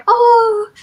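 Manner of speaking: hammed-up weepy mother fretting over her baby's blood; mock crying mother pleading, high and breaking, fading at the end. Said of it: "the mother will start crying".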